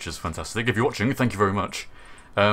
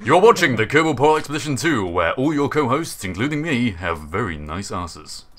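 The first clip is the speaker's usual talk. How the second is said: mock show announcer; 2 semitones higher than usual.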